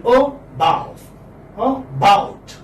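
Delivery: "Oh" as a light schwa, then stressed "bow" and "bout"; unstressed first syllable. Shown as a demonstration. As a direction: split it in two, weak "Oh", strong "bout". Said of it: "this is unstressed".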